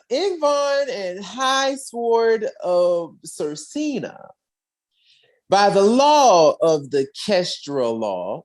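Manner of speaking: slow, weighty lordly decree; solemn proclamation. Retold or imitated. Akron demanding retribution, slow and solemn. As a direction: invoke the ancient law with gravity. Warlord invokes law, slow.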